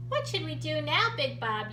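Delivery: sleepy yawn through words. A narrator's reading. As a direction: say it mid-yawn. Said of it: "yawned Little Bob".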